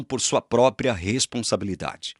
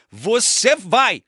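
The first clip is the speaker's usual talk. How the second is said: firm divine decree; 10 semitones higher, 4 dB louder, much slower than usual. Pretend. God overrules João.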